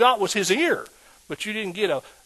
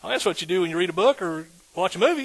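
ordinary talk

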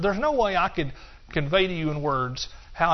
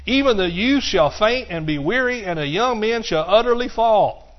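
rising preacher's reading of scripture; preaching; 5 semitones higher, 5 dB louder than usual. Acted. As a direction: proclaim the verse to the congregation.

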